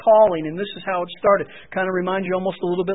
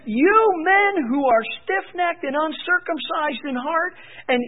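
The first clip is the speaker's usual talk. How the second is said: fierce rebuke; 4 semitones higher than usual. Retold or imitated. Stephen accusing the council of resisting the Spirit, fierce.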